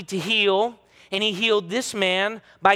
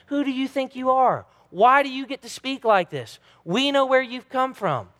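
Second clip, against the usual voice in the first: higher, challenging demon voice; the demons taunting Jesus, raised and defiant; demons' challenge; 7 semitones higher than usual. Acted. Preacher voicing the demons' challenge.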